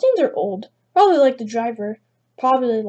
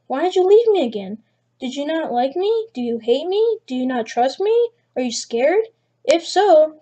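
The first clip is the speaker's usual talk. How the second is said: higher, insistent whiny plea; pleading stranger; 3 semitones higher than usual. Acted. Stranger pleading with the girl who unfriended him, higher whiny plea. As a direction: wheedle like a fake little girl begging.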